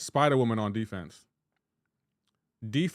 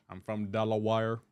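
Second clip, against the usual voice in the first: Forrest Gump; 2 semitones lower than usual. Acted. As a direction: introduce yourself in a put-on Southern accent. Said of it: "I'm imitating Forrest Gump".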